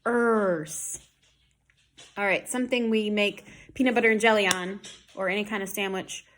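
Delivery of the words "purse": purse broken into p and a long er; "Purse", R drawn out and clear; er sound. Shown as a demonstration. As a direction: stretch the er in "Purse". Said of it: "er, spelled U R".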